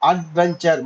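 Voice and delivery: அட்வென்ச்சர் broken into three beats; syllable by syllable. Shown as a demonstration. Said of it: "மூன்று syllable".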